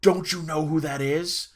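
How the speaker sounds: slow, emphatic disbelief; stunned intensity. Retold or imitated. Dad gripping the table at his son, intense disbelief. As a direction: stretch out the question, incredulous. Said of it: "grips the table and just stares at me".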